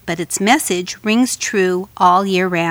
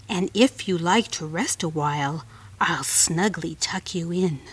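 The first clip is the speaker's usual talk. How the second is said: coaxing spider voice; 3 semitones lower than usual. Acted. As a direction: lure her gently like a spider.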